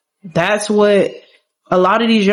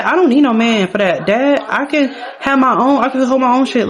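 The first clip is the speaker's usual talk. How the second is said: higher-pitched, lightly voiced protesting daughter; indignant daughter; 5 semitones higher than usual. Daughter insisting to dad she needs no man, mildly indignant. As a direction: push back at dad with mild indignation.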